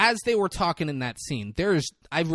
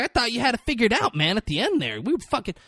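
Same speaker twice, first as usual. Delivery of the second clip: higher-pitched, aggrieved protest; mock upset; 5 semitones higher than usual. He imitates the upset client protesting to Marty. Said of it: "like, upset".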